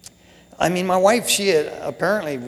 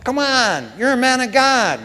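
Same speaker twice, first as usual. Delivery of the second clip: raised, high pep-talk rebuke; acted self-scolding; 7 semitones higher, 5 dB louder than usual. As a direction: tell yourself off loudly. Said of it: "And I'm going".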